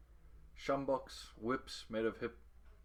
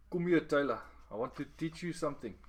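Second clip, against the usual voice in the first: louder, higher call; 6 semitones higher, 5 dB louder than usual. A narrator's reading. Gussie calling Taylor over, louder and higher. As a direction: call him over warmly.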